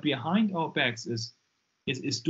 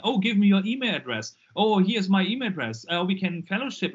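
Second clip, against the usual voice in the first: eager chatter; 3 semitones higher, 3 dB louder, faster than usual. Retold or imitated. Retells woman's eager chummy chat.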